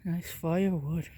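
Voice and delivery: winded from a long walk; out of breath, between breaths. Real, not acted. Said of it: "Sorry, I'm out of breath".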